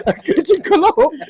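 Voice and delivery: very high, loud gleeful crowing; souped-up kid. Retold or imitated. Little boy repeating the big surprise to dad, souped-up shout. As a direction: act out a kid bursting with pride, laughing around it. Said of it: "I was souped".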